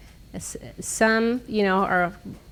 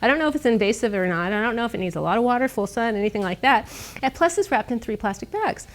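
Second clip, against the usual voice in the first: snarky; 2 semitones higher than usual. Retold or imitated. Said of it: "I was, like, really snarky".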